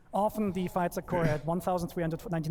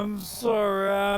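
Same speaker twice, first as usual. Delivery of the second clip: louder, flustered through laughter; nervous laughing apology; 5 dB louder, slower than usual. Real, not acted. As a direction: laugh it off, embarrassed.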